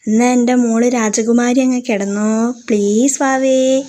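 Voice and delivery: coaxing. Acted. Husband coaxing sulking wife.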